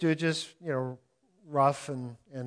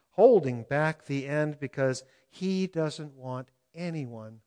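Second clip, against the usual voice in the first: scripture reading. Acted. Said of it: "from Eugene Peterson's paraphrase".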